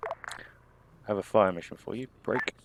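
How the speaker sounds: radio call. Shown as a demonstration. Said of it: "demo of radio call".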